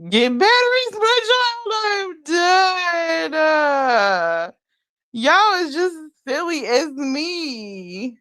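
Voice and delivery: breaking into squealing laughter; laughing fit. Real, not acted. Cracking up at her own joke.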